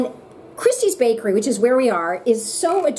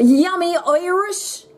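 savoring; 3 semitones higher, much slower than usual. Real, not acted. Savoring the cheesecake.

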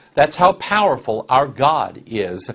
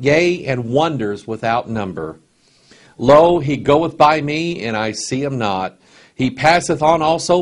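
solemn scripture reading; 2 semitones higher than usual. Acted. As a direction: read it as holy awe. Preacher reading Job aloud.

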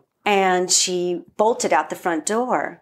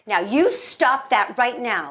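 lightly voiced scolding mom, emphatic; a touch of motherly insistence; mommy mode; 3 semitones higher than usual. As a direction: firmly tell someone off with love. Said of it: "My mom goes into mommy mode".

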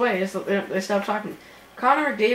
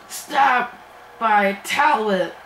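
voice crack; 5 dB louder, much slower than usual. Real, not acted. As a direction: voice cracking on the call. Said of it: "Sorry, the voice crack".

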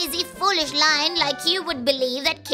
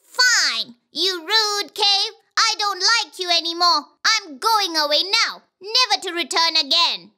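high, offended fox voice; sulky, high-pitched farewell; huffy fox; 6 semitones higher than usual. Acted. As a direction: flounce off in a feigned huff. Fox feigns offence at silent cave.

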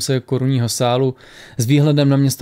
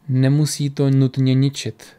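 slow, unhurried reply; slowly. Acted. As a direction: take your time over each word. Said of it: "řekl Airwolf pomalu".

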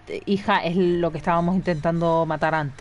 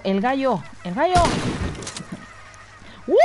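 calling out; 4 semitones higher than usual. Real, not acted. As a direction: shout for the rooster to come back. Calling to the rooster.

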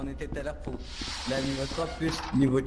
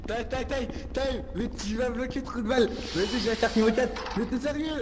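high pitched filter voice; voice changer; 8 semitones higher than usual. Real, not acted. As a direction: shout through a voice modifier. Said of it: "c'est le modificateur de voix parce que même moi".

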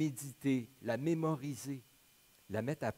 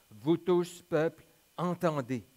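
raised, louder proclamation; calling out; 4 semitones higher, 6 dB louder than usual. A narrator's reading. Michée calls on all the people to hear, loud proclamation. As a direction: address a whole crowd, higher and firm.

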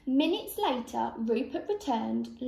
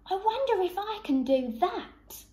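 higher, curious voice; wondering rabbit; 7 semitones higher than usual. A narrator's reading. Rabbit sees duck lay an egg, wondering. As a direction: wonder aloud, pitched up.

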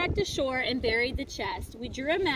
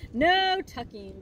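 crew cry; slower than usual. Acted. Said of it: "the crew cried".

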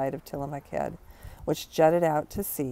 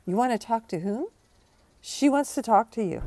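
mock mom voice; 8 semitones higher, 3 dB louder than usual. Plays mom and herself.

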